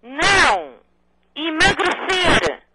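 slow, drawn-out shout; over enunciating. Real, not acted. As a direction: spell it out slowly and loudly. Repete para quem não ouve. (articulando devagar e bem alto)

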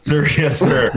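barked military "yes sir"; drill sergeant reply. Pretend. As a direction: snap back like a recruit. Mock salute after "love it or leave it.

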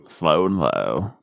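slow, drawn-out Southern delivery; slow Deep South imitation; slow and low. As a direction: stretch each word in an easy drawl. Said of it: "you talk slower and lower".

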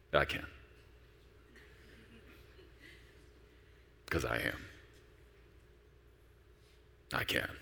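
low, very soft, spaced-out answer; reply as God, quiet and deep, with long pauses; calm, deep understatement. Acted. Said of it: "he says it in that really deep tone of voice".

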